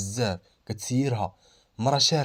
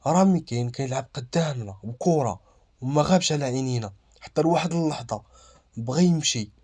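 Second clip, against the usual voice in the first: acted read-aloud of a statement, audible and slightly raised; 3 semitones higher than usual. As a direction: read the testimony out for others to hear. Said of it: "قرا بصوت مسموع". (قراءة بصوت مسموع)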